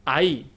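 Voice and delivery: "Ahí" in two syllables, stress on the final í; emphasized pronunciation. Shown as a demonstration. Teacher demonstrating stress on the í, a careful "Ahí". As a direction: lean on the í of "Ahí". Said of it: "poniendo énfasis en la pronunciación".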